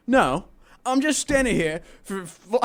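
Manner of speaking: mock an obvious question with heavy sarcasm; super sarcastic. Imitating a local answering someone in line, super sarcastic. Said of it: "super sarcastic".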